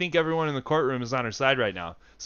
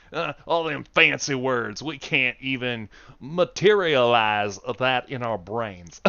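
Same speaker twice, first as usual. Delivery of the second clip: mock Southern American; 5 dB louder than usual. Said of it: "make an American joke".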